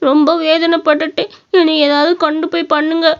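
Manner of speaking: put-on a child sobbing out his pain, begging for help; crying with stomach pain. Sick son tells his father about the stomach ache, crying. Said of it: "வயித்து வலின்னு ரொம்ப அழுதுகிட்டு இருந்தான்".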